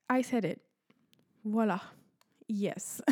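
whispering. Real, not acted. Mock confession aside.

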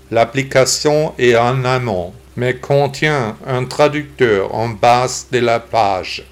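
synthetic text-to-speech computer voice. Real, not acted. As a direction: read like a computer voice. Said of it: "j'ai décidé d'enregistrer le podcast avec une voix d'ordinateur".

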